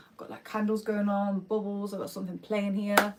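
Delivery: whispered, dreamy about the bath. Real, not acted. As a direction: whisper it like a secret treat. Talking about bath, happy place.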